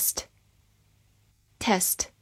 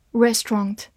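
"Restaurant" British-style, REST-ront; British accent. Shown as a demonstration. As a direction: give "Restaurant" its rounded British last vowel. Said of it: "美式发音".

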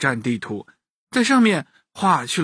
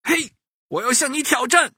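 high, put-on cartoon monkey voice; mimicking monkey; 9 semitones higher than usual. A narrator's reading. Monkey imitates the boy's challenge, mimicking. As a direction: copy the boy's challenge in a squeakier voice. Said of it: "他也学着说道".

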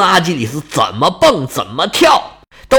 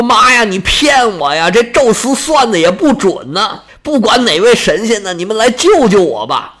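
frantic begging with shouted cries; a cornered warrior begging the gods, half shouting; desperate pleading hero; 3 semitones higher than usual. Acted. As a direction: hero begging the heavens for rescue, voice rising. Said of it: "又求爷爷又告奶奶".

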